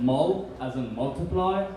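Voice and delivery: "mul" said like the start of "multiply"; pronunciation demo. Shown as a demonstration. Comic teaching the crowd the name, demonstrating "mul". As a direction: spell out "mul" by its sound. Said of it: "so you pronounce it".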